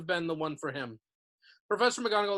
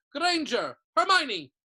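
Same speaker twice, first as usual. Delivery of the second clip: calling out names; 9 semitones higher, 8 dB louder, slower than usual. A narrator's reading.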